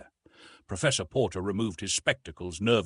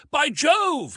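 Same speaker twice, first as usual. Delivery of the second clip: much higher, louder astonished cry; surprised exclamation; 9 dB louder than usual. A narrator's reading. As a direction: gasp it out in shock. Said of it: "he exclaimed".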